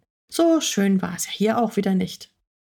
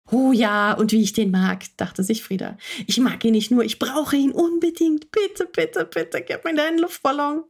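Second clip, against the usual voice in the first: higher, pleading little cat voice; begging cat voice; 3 semitones higher than usual. Acted. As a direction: beg for the balloon like a wheedling kitten. Frieda the cat begs. (bettelnde Katzenstimme, höher)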